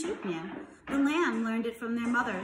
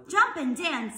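raised, louder rooster's call; lightly acted call of encouragement; shouted advice; 5 semitones higher, 6 dB louder, slower than usual. A narrator's reading. Animals shout advice in chase.

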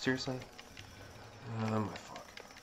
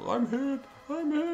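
high, loud cry of alarm; mock battlefield panic shout; panicked yell; 5 dB louder than usual. Real, not acted. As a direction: yell it like you've been shot. Gamer hit, yelling in panic.

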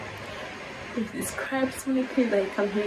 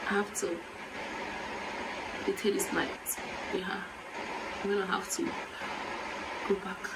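overcome, quiet; 2 semitones lower, 9 dB quieter, faster than usual. Real, not acted. Overcome, stops the reaction.

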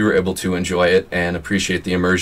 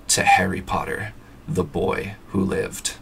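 slow, softer hushed voice; hushed toast; 6 dB quieter, slower than usual. Acted. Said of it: "saying in hushed voices".

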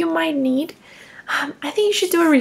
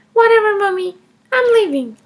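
put-on higher, defiant little girl voice; child Emma; 4 semitones higher, 5 dB louder than usual. Kindergartner Emma defending taking her mom's money, higher child voice. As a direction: play a cheeky kindergartner justifying herself.

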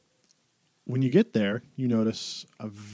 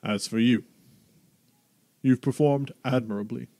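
booming Duke voice. Acted. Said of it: "big booming voice".

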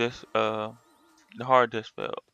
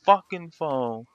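emphatic frustration. Retold or imitated. Retold complaint to phone support.

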